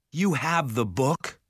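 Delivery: high, anxious plea; shaky. A narrator's reading. Jared bargaining with the ogre, shaky. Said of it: "Jared said shakily".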